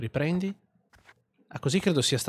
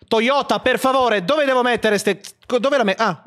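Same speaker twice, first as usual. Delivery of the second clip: loud, high frustrated plea; exasperated outburst; 9 semitones higher, 6 dB louder than usual. Real, not acted. Gamer begging the game to show where to put it, exasperated. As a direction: raise your voice, pleading in exasperation.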